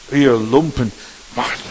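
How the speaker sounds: loud acted rebuke; short burst of acted wrath; angry Moses. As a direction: imitate Moses scolding the people, loudly. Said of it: "Doch im Zorn schritt er einfach gleich".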